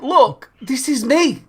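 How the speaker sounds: high, drawn-out protest; mock indignant insistence. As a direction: act out an indignant, self-important plea. Indignant guest insisting at the door.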